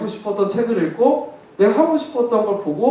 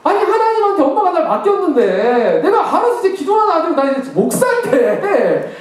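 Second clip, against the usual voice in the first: retold angry outburst; 6 semitones higher than usual. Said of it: "엄마한테 화를 냈어요".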